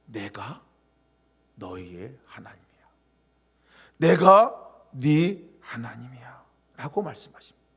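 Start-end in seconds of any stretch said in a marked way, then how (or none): 0.1-2.7 softer, whispered, intimate; God's hushed voice. Pretend. Preacher voicing God to Moses, softly whispered. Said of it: "하나님 뭐라고 말씀하셨냐면". 4.0-6.4 louder, very slow; God's slow proclamation. Pretend. Preacher voicing God to Moses, slow and louder. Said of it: "하나님 뭐라고 말씀하셨냐면".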